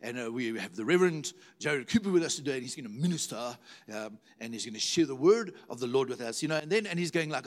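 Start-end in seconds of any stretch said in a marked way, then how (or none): 0.3-2.6 imitating a dignified British church host; lightly put-on formal British introduction. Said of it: "this very dignified, you know, British". 2.6-6.4 lightly imitated British church formality; a touch of dignified British host, pitched lower. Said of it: "this very dignified, you know, British".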